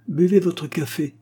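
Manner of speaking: mock him as you order the coffee; mocking command. A narrator's reading. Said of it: "commanda Minetti, persifleur".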